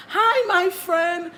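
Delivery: high, slow, drawn-out sing-song hello; auntie greeting. Retold or imitated. Imitating the street auntie greeting her, high and slow. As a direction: lure them in with a syrupy greeting.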